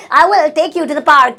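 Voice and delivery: "I will take you to the park" stretched out very slowly; very slow, each word set apart; slow teaching repeat. Shown as a demonstration. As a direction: dictate it slowly to the class. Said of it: "slow repeat for learners".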